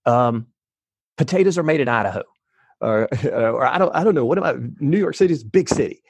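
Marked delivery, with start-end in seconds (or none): 1.2-2.2 higher, quick silly statement; higher mock quote. Mock friend's random statements. 3.6-6.0 higher, rushed confused ramble; higher mock ramble.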